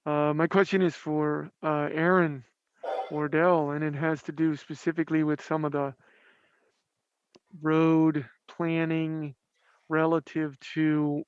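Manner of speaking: speaking behind a mask; muffled voice through fabric. Real, not acted. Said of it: "it's a little muffled".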